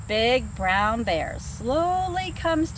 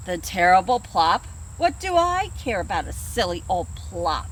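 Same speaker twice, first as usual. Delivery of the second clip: lower, lazy bear voice; yawning bear; 6 semitones lower than usual. Acted. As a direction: brush it off like a drowsy bear. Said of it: "yawns the big brown bear".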